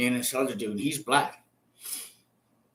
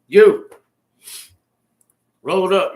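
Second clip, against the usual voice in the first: much louder barked command; cop's order; 3 semitones higher, 10 dB louder than usual. Retold or imitated. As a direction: order him to pack up, hard. Cop orders him to pack.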